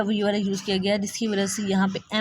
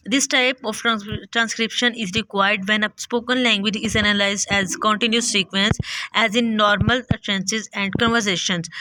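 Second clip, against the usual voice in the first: reads the English definition aloud, slowly; careful read-aloud of the book text; slow, deliberate reading from the text; slow textbook reading; much slower than usual. Acted.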